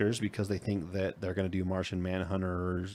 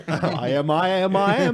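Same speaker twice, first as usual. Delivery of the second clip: put-on Cockney accent; 9 semitones higher, 8 dB louder than usual. Joking Cockney alien bit.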